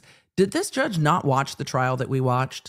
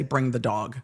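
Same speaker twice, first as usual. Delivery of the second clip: mock demanding judge; 7 semitones higher than usual. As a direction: mimic a judge insisting, rising into a squeak. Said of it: "waiting for this judge to say".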